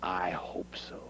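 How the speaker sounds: quiet doubt. Real, not acted. Wrestler doubts his rival will show up, quietly.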